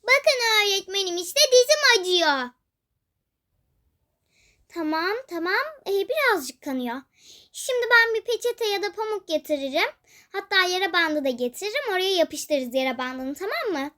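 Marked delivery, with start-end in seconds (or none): 4.7-13.9 lower, softer calming teacher; calm the hurt child gently; teacher promising a plaster, quietly reassuring; soothing teacher. Acted.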